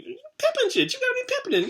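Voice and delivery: high, laughing through the words. Real, not acted. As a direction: crack up while saying it. Laughs at his own story.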